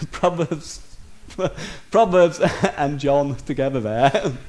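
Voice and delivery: chuckling through a slip of the tongue; laughing at himself. Real, not acted. Preacher laughing at mixing up two Bible verses. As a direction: laugh it off, slow and amused.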